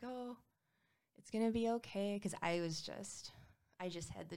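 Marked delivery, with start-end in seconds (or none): 0.0-2.2 higher, soothing imitation of a kind nurse; mock-soothing nurse, pitched up; sweet nurse. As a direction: reassure her like a gentle nurse, lightly voiced. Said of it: "this really sweet nurse".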